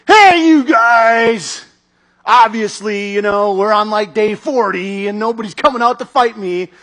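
slow, loud, drawn-out taunt across the valley; booming giant taunt. Retold or imitated. Goliath taunting the army of Israel, slow booming shout. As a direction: call out like a giant mocking an army. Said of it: "Goliath comes out with his taunt".

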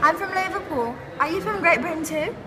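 high, loud put-on British accent; eager faux-British voice; fake British accent. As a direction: pretend you're a Liverpool Brit. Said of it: "She's from Britain".

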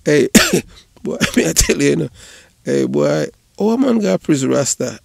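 loud, high, still laughing; excited. Real, not acted. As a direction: shout it out through the laughter. Excited after laughing fit.

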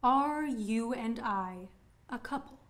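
slow, measured question; slow pointed questioning. Acted. Woman setting a dim admirer straight, slow pointed questioning. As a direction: spell it out slowly for him.

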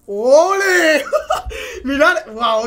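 high, loud drawn-out cheer; real whoop of delight. Real, not acted. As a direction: call it out in triumph. Cheers as the box opens.

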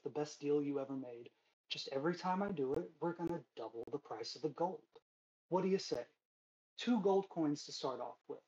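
smooth, persuasive dealmaker; salesman voice. Acted. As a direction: sell the deal, friendly and pushy.

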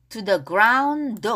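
"ground" drawn out, its d carried into an "oh"; linked sounds. Shown as a demonstration. Teacher showing the linking, "ground" run into "oh". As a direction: slowly link "ground" into the following vowel. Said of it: "여기가 연음이 돼요".

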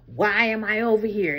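loud, exasperated inner voice; loud acted exasperation; irritated mock question. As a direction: voice their irritation, loudly.

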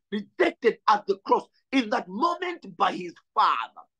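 full-voiced preacher's shout; rising to a shouted climax; preaching shout. Real, not acted. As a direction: cry it out at the peak of the sermon.

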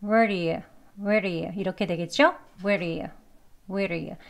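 "Where do you" linked with a tapped d; reduced "where do you", soft d; quick conversational form. Shown as a demonstration. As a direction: run "where do you" into one short word. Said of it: "대화 발음으로 빨리 발음하게 되면요".

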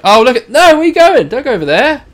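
high, loud panicked calls; frantic warning to a wandering character; alarmed shouting. Real, not acted. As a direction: yell after him as he wanders off.

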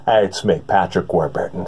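Patrick Warburton impression. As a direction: mouth wide open, booming from deep down. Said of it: "open up the mouth really wide and breathe from way deep down below".

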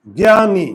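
জ্ঞানী said as গ্যানি with short i; pronounced gyani. Shown as a demonstration. Teacher showing class জ্ঞানী as গ্যানি. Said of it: "এখন".

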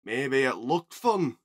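loud, slow disapproval; stern. A narrator's reading. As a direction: weigh each word as a warning. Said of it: "Donald said sternly".

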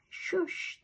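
breathy hushed shush; whispered shush. A narrator's reading. Dad hushing his daughter at night, whispered. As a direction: hush her softly so Mom sleeps. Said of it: "Daddy said".

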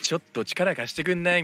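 japanese gyaru slang. Retold or imitated. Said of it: "めっちゃギャル".

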